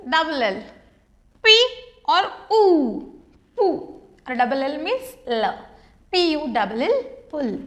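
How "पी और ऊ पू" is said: "पी" and "ऊ" kept apart, then blended into "पू"; sounding out. Shown as a demonstration. Teacher blends letter sounds for the class, careful sounding out.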